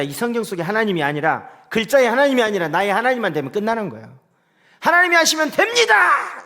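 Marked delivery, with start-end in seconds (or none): 4.8-6.4 high, loud, ringing proclamation; fiery preaching. Retold or imitated. Pastor preaching to an empty church, proclaiming loudly. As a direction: belt it out like a revival preacher. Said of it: "이렇게 설교했어요".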